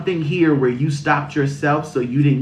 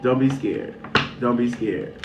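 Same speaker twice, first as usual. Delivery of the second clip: laughing reassurance. Real, not acted. Reassuring repeated phrase with laughter.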